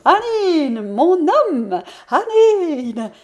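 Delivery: high, loud ringing call; energetic call. A narrator's reading. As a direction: call out the name triumphantly. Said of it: "la voix devenant énergique".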